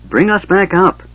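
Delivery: high, loud desperate yell; frantic yell. A narrator's reading. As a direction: yell up to be hauled out. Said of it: "Tanis yelled frantically".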